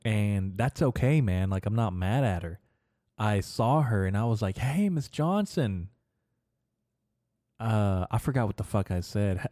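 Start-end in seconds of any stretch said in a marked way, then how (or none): 4.6-5.9 higher, drawn-out friendly hello; retold smiley greeting, pitched up; big-smile greeting. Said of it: "while smiling real big".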